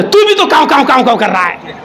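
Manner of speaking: fast, teasing comeback; mocking retort. Pigeon snapping back at the crow, quick mocking tone. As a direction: rattle off the caws to mock him. Pigeon mocks crow's cawing.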